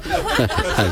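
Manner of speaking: slow, laugh breaking into the words; words stretched out by a laugh; laughing through words. Real, not acted. Host admitting he can't find words, laughing slowly.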